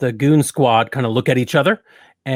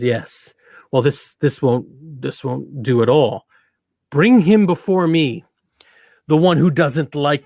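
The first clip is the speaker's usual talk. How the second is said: commanding prince; 4 dB louder than usual. Acted. Prince gives orders.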